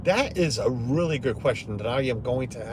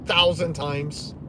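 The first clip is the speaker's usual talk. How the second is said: mock bored schoolkid; 5 semitones higher, 5 dB louder than usual. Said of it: "And the kid's gonna be like".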